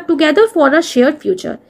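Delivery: dictation pace. Shown as a demonstration. Teacher dictating the motto.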